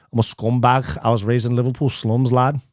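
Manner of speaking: mock Scouse accent, lightly done. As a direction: try a rough Liverpool accent. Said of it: "keep working on the Scouse accent".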